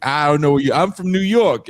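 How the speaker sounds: imitating a loud, high-pitched boast; brash New Yorker. Mimicking New Yorkers who go anywhere in the world, brash.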